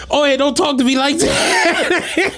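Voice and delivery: high, slow, laughing mock of a bratty kid; a teasing boy's voice, high and slow. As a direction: whine it back like the cheeky boy, giggling. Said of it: "He like".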